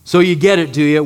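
dry, mock-questioning sarcasm; sarcastic. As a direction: needle the disciples sarcastically. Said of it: "there's a hint of sarcasm".

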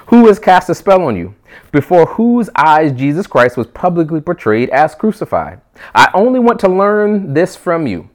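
impassioned, frustrated rebuke; Paul. Acted. Paul confronting the wandering Galatians with pointed questions, passionate and frustrated. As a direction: press each question with urgent, loving anger. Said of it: "Do you hear the passion in Paul's voice".

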